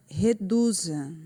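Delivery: reduza with a strong, lifted DU; stress on DU. Shown as a demonstration. Teacher helps pupils find the tonic syllable, stressing DU in reduza. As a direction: hit the middle syllable DU in "reduza". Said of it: "que no caso aqui é o do".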